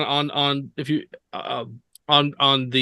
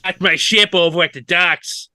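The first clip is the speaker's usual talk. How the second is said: put-on joke Long Island accent; 3 semitones higher, 4 dB louder than usual. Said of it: "I choose a Long Island accent".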